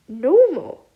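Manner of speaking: sharp, loud alarmed question; startled and worried. A narrator's reading.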